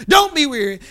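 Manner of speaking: second take driven harder. Real, not acted. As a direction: lift it into a firmer exhortation. Repeated exhortation, second take.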